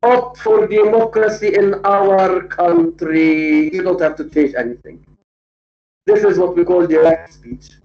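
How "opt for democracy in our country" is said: dictating. Shown as a demonstration. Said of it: "Achebe maintains, comma".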